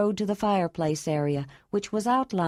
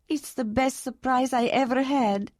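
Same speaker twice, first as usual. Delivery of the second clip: higher, tearful joy, slowing at the end; tearful woman's voice; 5 semitones higher than usual. A narrator's reading. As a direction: pour it out through happy tears. Ayla tearful.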